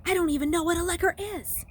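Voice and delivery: annoyed. Acted. Luke annoyed.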